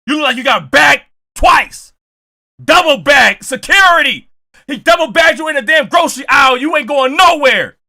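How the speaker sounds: mock roast shout. Teasing the player who got bagged, shouting. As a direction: yell it like roasting him in the aisle. Roasting friend in grocery aisle.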